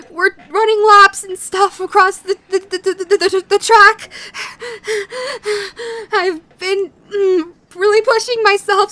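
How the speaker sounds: panting between words; out of breath. Pretend. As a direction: talk while catching breath. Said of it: "so I'm a little out of breath".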